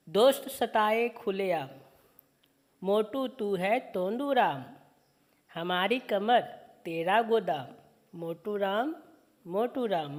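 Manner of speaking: slow, sing-song poem reading; poem recitation. Acted. Teacher reciting a children's poem slowly to students. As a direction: recite each line slowly for the class.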